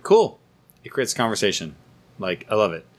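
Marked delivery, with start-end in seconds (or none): 0.0-0.4 high mock cool. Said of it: "I was like".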